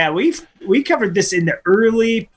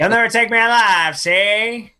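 playful movie-mobster defiance; higher, mock gangster voice; old-timey gangster; 3 semitones higher than usual. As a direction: play a cornered old-time hoodlum. Gangster catchphrase in slang bit.

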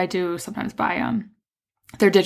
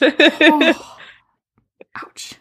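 pained ouch; 8 semitones higher, 3 dB louder than usual. Real, not acted. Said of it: "Just burned my mouth".

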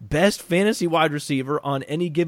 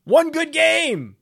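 much higher, slow, mocking; drawn-out sarcastic jab; 12 semitones higher, 4 dB louder, slower than usual. Real, not acted. Sarcastic retort to co-host.

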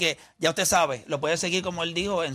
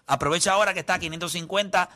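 infomercial. Acted. Infomercial continues.

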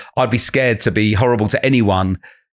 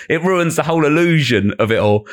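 ordinary talk

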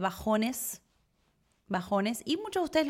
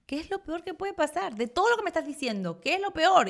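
raised, pressing questions; insistent higher-pitched quote; quoting her husband; 8 semitones higher than usual. Retold or imitated. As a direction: ask it higher, pushing her to answer. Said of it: "Santi siempre me decía".

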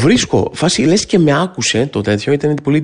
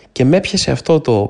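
ordinary delivery

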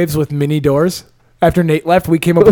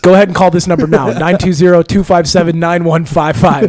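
home shopping host; 4 dB louder than usual. Pretend. Infomercial call-now pitch.

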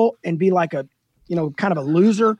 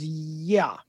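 low-key, softer drawn-out yeah; sheepish admission; 3 semitones lower, 6 dB quieter than usual. Retold or imitated. Caught-out man answering the roofer, sheepish. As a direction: admit it small and reluctantly.

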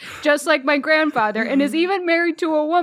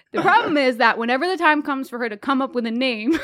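giggling through the words; barely holding back laughter; laughing while reading; faster than usual. Real, not acted.

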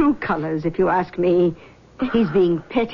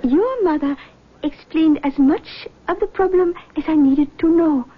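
lightly voiced mystic, higher pitch; seance medium; 6 semitones higher than usual. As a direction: greet them like a gracious clairvoyant. Medium questions girl.

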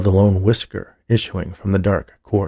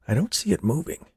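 soft, higher, hushed remark; whispering; 7 semitones higher, 5 dB quieter, faster than usual. A narrator's reading. Friend studies sleeping man's mole, whispering. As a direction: whisper it while peering close. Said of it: "he whispered".

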